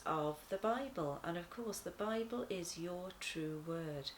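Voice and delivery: sincere, gentle prayer voice; closing prayer after story time; earnest prayer. Acted. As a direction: pray it for the children.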